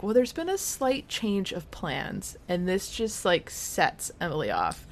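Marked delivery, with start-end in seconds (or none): 0.0-2.4 higher, slow, drawn-out quote; imitating Rachel. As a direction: stretch out a delicate announcement. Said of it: "Rachel is like".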